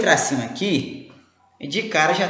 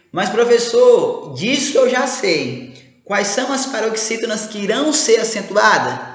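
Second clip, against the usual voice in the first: imagined student; 4 semitones higher than usual. Pretend. Student cutting in on the professor, mock protest. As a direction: play a cheeky pupil interrupting the teacher.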